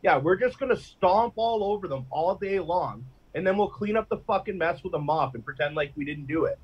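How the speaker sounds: smug, dismissive politician voice; mock government voice. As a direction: sneer it like a smug official. Mocking the government's own voice.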